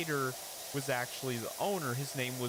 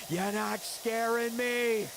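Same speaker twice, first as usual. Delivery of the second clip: much higher, louder, slow defiance; mock defiant shout; 11 semitones higher, 5 dB louder, much slower than usual. Comedian defying the waiter bringing more food, much higher, louder, slow.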